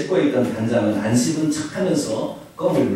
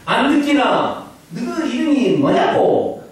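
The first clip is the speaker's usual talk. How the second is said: slow, higher Gyeongsang teacher asking with a laugh; 8 semitones higher, slower than usual. Retold or imitated. Teacher repeating the question to the student, Gyeongsang dialect. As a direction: draw it out like a puzzled Gyeongsang teacher. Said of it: "경상도 말로 해보려고".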